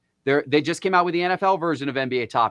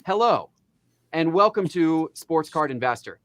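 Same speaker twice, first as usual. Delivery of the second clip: boring intro voice. Retold or imitated. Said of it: "That's how I started it in that exact voice".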